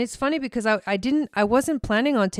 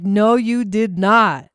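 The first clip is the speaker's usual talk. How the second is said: mock scolding; 5 dB louder, slower than usual. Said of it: "And you're like".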